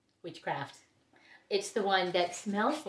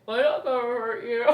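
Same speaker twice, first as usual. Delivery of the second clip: parrot impression. Parrot reassuring its owner before attacking, in a put-on bird voice. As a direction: mimic a parrot stretching out its words. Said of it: "he just says it that voice".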